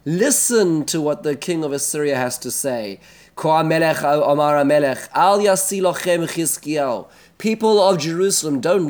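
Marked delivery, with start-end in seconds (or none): 3.4-7.1 raised voice calling out to the wall; loud proclamation. Retold or imitated. Rav Shakeh shouting up to the people on the wall, loud proclamation. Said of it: "raises his voice and speaks loudly". 7.4-8.9 raised voice calling to the city; loud proclamation. Retold or imitated. Rav Shakeh calling to the people of Jerusalem, loudly. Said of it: "raises his voice and speaks loudly".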